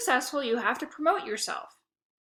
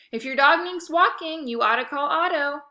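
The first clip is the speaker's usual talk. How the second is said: louder, higher, pushing the pitch; eager sales pitch; 5 semitones higher, 6 dB louder than usual. A narrator's reading. Kid pitching his dog walking to a classmate, eager and loud. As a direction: sell yourself like a pushy salesman.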